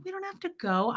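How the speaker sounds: high, soft coaxing; soothing husband in high soft voice; gentle pleading. Retold or imitated. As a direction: coax him softly to stay. Wife gently pleading with Fred.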